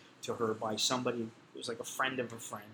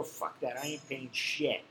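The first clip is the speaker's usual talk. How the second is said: defiant; slower than usual. Retold or imitated. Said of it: "And I said that".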